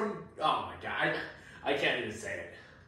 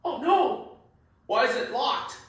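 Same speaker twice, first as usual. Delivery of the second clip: panicked; 6 semitones higher than usual. Acted. Finding the door locked.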